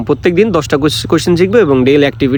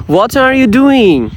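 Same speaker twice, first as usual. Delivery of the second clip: higher, very slow teacher read; slow model English; 6 semitones higher, much slower than usual. Shown as a demonstration. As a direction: spell out each English word slowly, rising high. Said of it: "accent দিয়ে দিয়ে পড়বেন". (ধীরে, উঁচু স্বরে শিক্ষকের উচ্চারণ)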